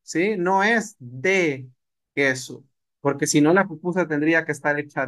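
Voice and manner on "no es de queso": "No es de" drawn out slowly, then queso; teacher stresses the wrong form; slow correction. Shown as a demonstration. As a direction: spell out No es de, queso. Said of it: "hablamos mal".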